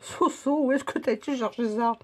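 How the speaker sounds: parle en mâchant; mâcher en parlant; bouche pleine. Real, not acted. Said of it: "je suis en train de manger". (en train de manger, bouche pleine)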